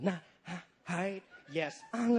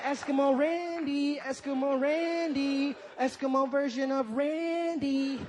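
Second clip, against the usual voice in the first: slow, drawn-out calling; lightly voiced, slow caller; woman calling him; 3 semitones higher, slower than usual. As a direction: call it out slowly, stretching each name. Acted woman calling his name.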